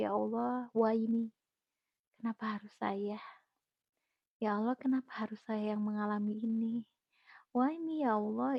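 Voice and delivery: soft, near-whispered why me; hushed despairing prayer. Retold or imitated. Recalling her first despair, she whispers her questions to God. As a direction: barely voice the plea to God.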